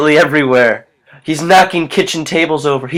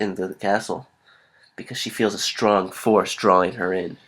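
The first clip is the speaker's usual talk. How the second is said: measured, lower-pitched storyteller with suspenseful pauses; ominous story narration; 6 semitones lower, 5 dB quieter than usual. Acted. Narrator telling of a girl drawn to a castle, ominous narration. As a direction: build quiet foreboding, sinking in pitch.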